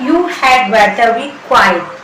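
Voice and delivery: very slow, each word laid out; slow teaching demo. Shown as a demonstration. Teacher repeating the sentence for students, very slow. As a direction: say it slowly so students can repeat. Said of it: "इसकी English होगी".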